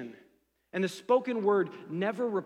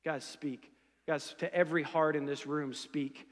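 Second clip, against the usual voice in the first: soft, pleading prayer to God; hushed prayer; 3 semitones lower, 3 dB quieter than usual. Retold or imitated. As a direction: quietly ask God to speak. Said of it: "I'm actually praying like".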